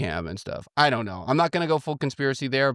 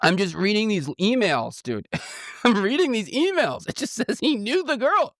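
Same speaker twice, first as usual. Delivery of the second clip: high-pitched, giggly self-defense; laughing protest; 9 semitones higher than usual. Real, not acted. Host insists they are just reading emails, laughing. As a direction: protest innocence through laughter.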